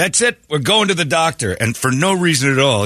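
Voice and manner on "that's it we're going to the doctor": mock outburst. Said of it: "Gary Oldman's character".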